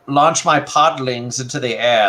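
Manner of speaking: high put-on creature voice. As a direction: speak as the little monster. Voicing the creature toy.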